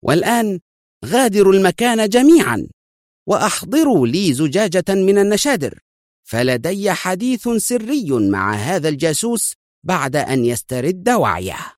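agitated command, easing at the end; tense command. A narrator's reading. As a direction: clear the room sharply. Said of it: "ثم أردف في عصبية".

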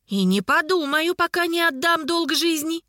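high-pitched, stubborn niece; girlish defiance; defiant refusal. A narrator's reading.

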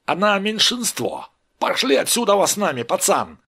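high, excited heckling; gang bickering. Acted. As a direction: pile on insults, rising to shrieked name-calling. Толпа спорит и бранится.

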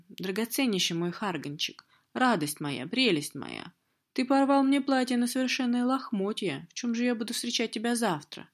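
sweet coaxing, pitch rising high; purr, then whine up high; cooing mistress. Acted. Mistress coos, complains about dress.

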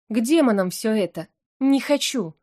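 usual speaking voice

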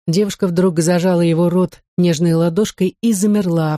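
plain reading voice

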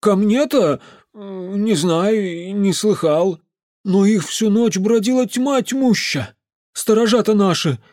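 put-on the drunk uncle warning the mage about creatures; ranting drunk peasant. A narrator's reading. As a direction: grumble darkly about the volcanoes.

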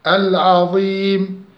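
slow recited العظيم with a briefly held long i; chanted العظيم, modest hold before the final m; short madd. Shown as a demonstration. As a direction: give العظيم the shortest stretch on its ee. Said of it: "ونمده حركتين أو أربعة أو ستة".

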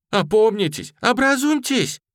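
high, loud impassioned pleading; passionate plea. A narrator's reading. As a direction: beg them to come to their senses. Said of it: "страстно убеждала барышня". (страстно и высоко умоляет)

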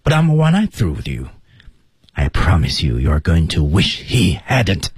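stern warning built in layers; weak "may have", then mounting force; serious warning. Shown as a demonstration. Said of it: "严肃的警告是本句话的一个特点".

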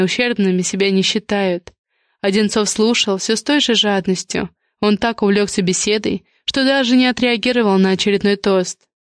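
ordinary delivery, nothing marked

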